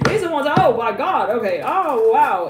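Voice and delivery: loud, high burst of excitement at the card; thrilled outburst over a tarot card; excited reaction. Real, not acted. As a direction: gasp out oh my god.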